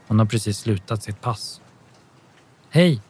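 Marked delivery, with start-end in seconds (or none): 2.7-3.0 light, higher-pitched call of greeting; a mild, lifted call. A narrator's reading. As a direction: call hello to someone you know. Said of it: "ropar hon".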